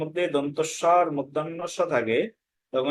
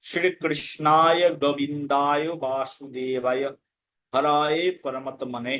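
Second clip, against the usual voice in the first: Sanskrit recitation; slower than usual. Shown as a demonstration. Recites a Sanskrit verse as example.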